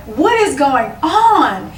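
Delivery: high, slow retold disbelief; bewildered. Dancer asking herself mid-dance, slow bewildered question. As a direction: ask it high and slow, baffled.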